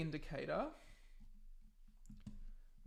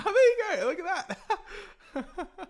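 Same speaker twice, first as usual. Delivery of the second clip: laughing; 14 semitones higher, 10 dB louder than usual. Real, not acted. Bot output appears, laughing.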